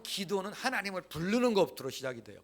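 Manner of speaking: usual speaking voice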